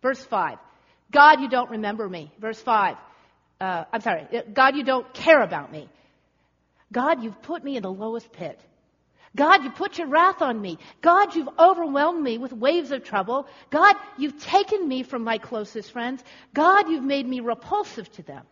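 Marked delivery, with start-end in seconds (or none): 1.1-2.3 hard, loud attack on God's name; accusing psalmist. Acted. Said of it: "it's more of an accusation". 4.5-18.4 loud, emphatic complaint hammered at God; accusing psalmist. Acted. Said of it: "it's more of an accusation".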